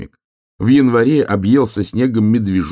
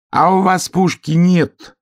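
насмешливо; 12 semitones higher, 5 dB louder, slower than usual. Acted. Рысь насмешливо дразнит зверей.

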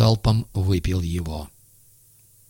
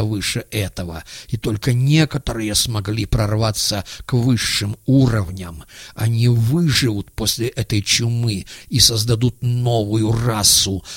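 mad villain monologue. Acted. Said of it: "произносил монолог... главный герой трагедии".

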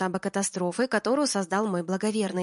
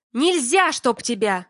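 furious snap; 3 semitones higher, 7 dB louder, slower than usual. Acted. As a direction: bite his head off. Алина огрызается.

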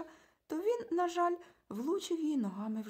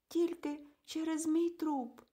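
trembling, pitiful; 7 semitones higher, slower than usual. A narrator's reading. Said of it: "тремтячий голос прозвучав тихо і жалісливо".

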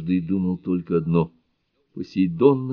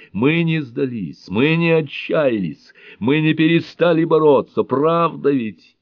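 higher, louder, slow thundering; booming menace; 7 semitones higher, 4 dB louder, slower than usual. A narrator's reading. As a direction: thunder at the heavens. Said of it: "Его голос гремел грозно". (грозно гремит, выше, громче, медленно)

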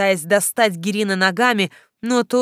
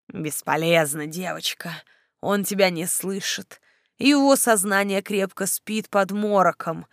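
hushed, silky mockery. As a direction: purr the cruel news. Necromancer taunts softly. (вкрадчивый злорадный некромант)

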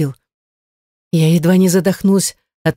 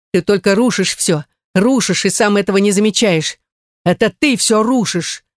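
higher, angry shout building; 4 semitones higher than usual. Acted. Husband yells at wife, higher and angrier by the end. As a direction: hurl it at her. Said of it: "крикнул он".

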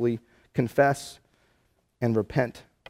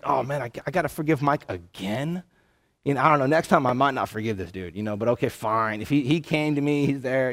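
mock begrudging; 2 semitones lower than usual. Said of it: "He's not doing it begrudgedly".

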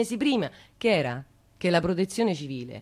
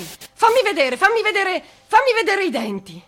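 desperate, much higher and louder pleading cry; anguished shout; 9 semitones higher, 8 dB louder than usual. Acted. Woman calling down to the trapped child, desperate shout. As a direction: cry out as if your voice could reach the bottom of the well.

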